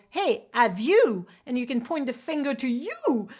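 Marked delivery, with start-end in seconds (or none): 0.1-1.3 engaging direct ask. Shown as a demonstration. Coach demos leaning in to the viewer, louder, slower. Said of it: "or you can go closer and go".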